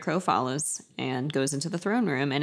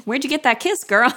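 sassy tease; 8 semitones higher, 6 dB louder than usual. Pretend. Sassy teasing voice.

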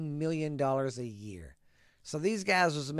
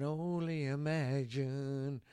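Stewart from Mad TV; 4 dB quieter, slower than usual. Retold or imitated. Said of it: "she sounds like Stewart from Mad T V".

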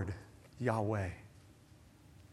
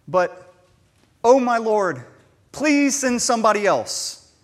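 mock panic, higher and louder; panicked plea; 5 semitones higher, 7 dB louder than usual. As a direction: beg in a hammed-up panic. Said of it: "said in somewhat of a panic".

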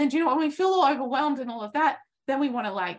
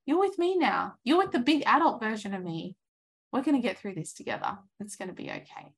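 reassuring comfort. Pretend. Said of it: "You say".

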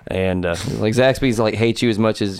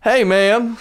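high, mock beggar's plea; squeaky plea for food; homeless guy voice; 9 semitones higher than usual. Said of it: "he just looks at me and goes".

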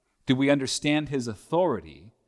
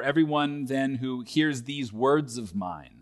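slow emphasis. Shown as a demonstration. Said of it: "that's the part that's emphasized".

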